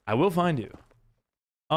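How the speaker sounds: slow, drawn-out playful stalker line; a hammed-up creepy promise; mock menacing threat. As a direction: tease them like a movie villain, very slowly. Mock threat after TTV will find you.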